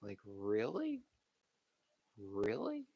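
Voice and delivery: incredulous. Real, not acted. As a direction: ask it like you can't believe it. Incredulous at fans.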